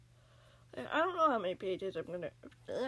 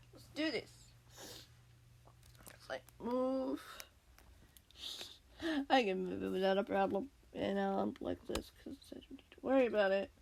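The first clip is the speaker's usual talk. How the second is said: whispering. Real, not acted. Whispering while moving around.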